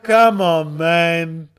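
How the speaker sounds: exasperated protest. Retold or imitated. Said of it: "And I'm like".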